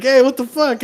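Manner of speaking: high, loud indignant yell; mock outrage. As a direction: shout it like an angry customer. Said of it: "They were saying, like".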